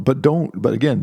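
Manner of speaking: ordinary delivery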